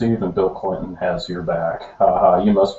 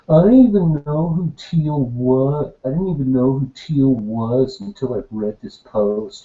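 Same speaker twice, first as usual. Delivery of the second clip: whiny voice. Pretend. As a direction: whine it like a petty complainer. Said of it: "read it in the super whiny bitch voice".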